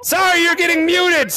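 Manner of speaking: slow high shout; slow shouted warning. Real, not acted. Muting the kid who swore.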